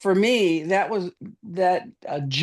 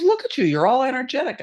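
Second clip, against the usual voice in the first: admiring; 5 semitones higher than usual. Retold or imitated. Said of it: "She goes".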